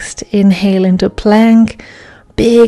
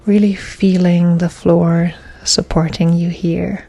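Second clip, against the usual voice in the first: measured, paused yoga-class cueing; guided yoga instruction; 2 semitones lower, 4 dB quieter than usual. Real, not acted. Yoga teacher guiding class through breaths, calm measured instruction. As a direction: cue each breath and movement, leaving space.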